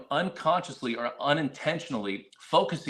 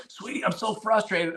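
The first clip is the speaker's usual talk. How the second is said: higher, lightly voiced wife's complaint; a hint of frustrated wife; 7 semitones higher than usual. Wife coming in to complain, lightly voiced frustration. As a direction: play the wife venting, just lightly. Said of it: "my wife would come in".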